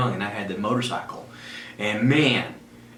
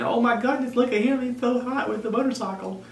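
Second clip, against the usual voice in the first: much higher, breathless fangirl gasp; mock swooning girls; 11 semitones higher than usual. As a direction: gush like a smitten teenage girl. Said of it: "into thinking".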